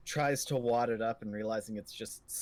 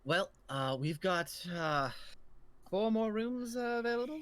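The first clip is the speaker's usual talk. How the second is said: put-on higher, kindly old landlady voice; Grandma Grace innkeeper, higher; 5 semitones higher than usual.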